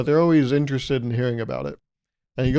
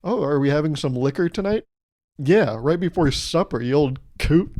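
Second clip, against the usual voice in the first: put-on old folks chatting. Two old-timers discussing liquor, lightly voiced folksy. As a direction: play an old-timer offering a drink. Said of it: "older generation people".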